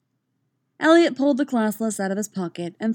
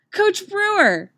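high, loud, drawn-out delighted call; excited child's call; 14 semitones higher, 7 dB louder, slower than usual. A narrator's reading. Katara racing up to her coach, excited shout. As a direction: call out like a thrilled kid. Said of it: "She was grinning like crazy".

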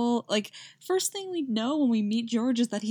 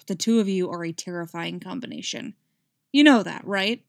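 demanding; 5 dB louder than usual. Acted. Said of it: "he demanded".

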